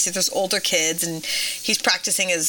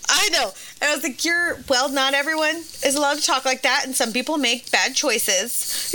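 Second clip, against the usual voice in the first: put-on higher-pitched explaining to a child; retold parent; 5 semitones higher than usual. Mom answering her swearing son, higher parental explaining voice. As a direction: gently lay down the rule, pitched up.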